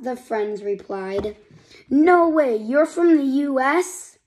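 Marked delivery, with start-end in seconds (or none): 1.9-4.2 amazed. Acted. Boy amazed the visitors come from the US, excited. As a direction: gasp it out in disbelief.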